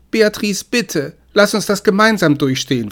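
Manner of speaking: high, urgent plea; pleading. A narrator's reading. Man begs girlfriend to face it together, pleading. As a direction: beg them to stay with you. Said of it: "flehte er".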